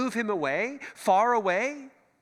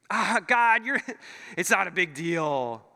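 dismissive shrug. Retold or imitated. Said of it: "you kinda brush off those little sins".

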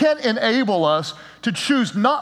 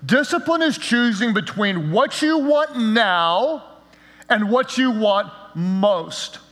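slow definition; slower than usual. Shown as a demonstration. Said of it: "I'm gonna define it this way".

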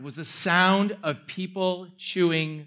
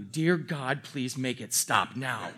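desperate prayer; 7 semitones lower, 6 dB quieter, slower than usual. Retold or imitated. Mock prayer while others chew.

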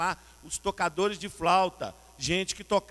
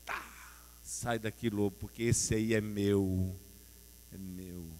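Jesus rebuking the wolf; 7 semitones lower, slower than usual. Acted. Jesus voiced chasing off wolf.

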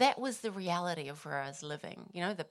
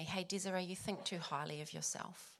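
soft, hushed voicing of a quiet rebuke; retold soft whisper; 5 dB quieter than usual. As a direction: gently imitate a quiet inner voice. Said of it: "the Holy Spirit just whispered to me".

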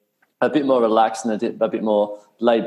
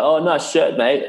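high, mock-cheerful teasing; sarcastic Aussie ribbing, pitched up; sarcastic compliment; 6 semitones higher, slower than usual. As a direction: tease a mate with fake praise. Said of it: "say, like".

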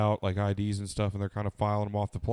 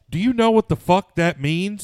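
much higher and louder, a mock outraged shout; incredulous retold yell; 10 semitones higher, 9 dB louder than usual. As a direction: shout it like you can't believe the question. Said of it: "it's funny to see rappers being like".

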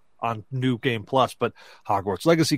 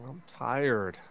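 put-on sleepy child mumble; 7 dB quieter than usual. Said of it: "she goes from laughing to".

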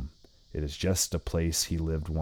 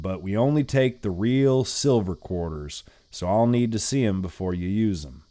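put-on old lady voice; 4 semitones higher, 3 dB louder than usual.

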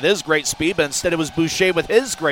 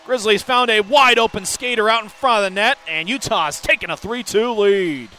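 screaming high goal call; excited goal call; 6 semitones higher, 7 dB louder than usual. Real, not acted. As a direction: yell the score out.

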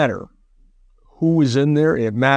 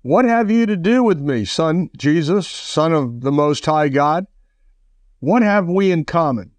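a raised, pleading cry from the possessed man; demon shouting; 3 semitones higher than usual. Acted. Preacher voicing the demon's cry to Jesus, a mock shout. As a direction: call out in alarm before Jesus. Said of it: "and shouted loudly".

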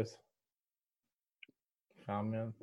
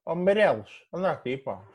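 workman calling out; 3 dB quieter than usual. Retold or imitated. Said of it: "tens de falar assim".

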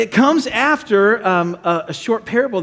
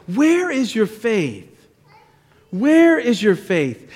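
drawn-out, measured questioning; slow, searching question; 3 semitones higher, slower than usual. Acted. Jesus looking at his followers, slow searching question. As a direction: let each word of the question land slowly.

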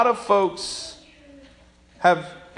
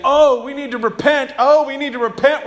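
mocking pastor; 6 semitones higher, 4 dB louder than usual. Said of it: "He's making fun of".

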